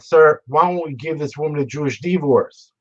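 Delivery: lightly put-on Alabama accent; imitated Southern judge. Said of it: "spoke like he was twelve Southerners from Alabama".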